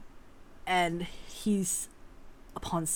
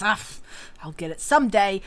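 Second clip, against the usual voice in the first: dismissive; 3 dB louder, faster than usual. Acted. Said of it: "flips his hand and says".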